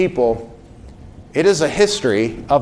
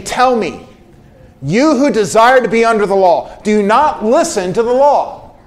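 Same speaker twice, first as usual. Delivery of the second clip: stern, raised reproach a little higher; reprimanding tone; 5 semitones higher than usual. Retold or imitated. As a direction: scold them like a fighting apostle. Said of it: "a bit of a reprimanding tone".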